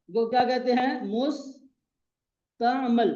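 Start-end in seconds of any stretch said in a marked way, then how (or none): 1.1-3.1 मुस्तामल drawn out very slowly, mus-ta-mal with a short a in the last syllable; teacher modelling मुस्तामल, very slow and clear; careful pronunciation. Shown as a demonstration. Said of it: "तलफ्फुज दुरुस्त करना".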